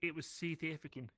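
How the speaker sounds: deliberately bad South African accent; a clumsy South African accent. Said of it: "That's the worst South African accent ever".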